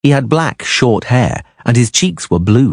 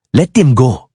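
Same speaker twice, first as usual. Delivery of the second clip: snarled; 6 semitones higher, 4 dB louder than usual. A narrator's reading. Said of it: "Jonghan snarled".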